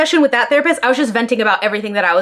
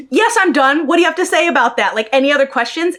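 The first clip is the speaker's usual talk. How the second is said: put-on mean girl sass; 2 semitones higher than usual. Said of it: "mean girl energy of being like".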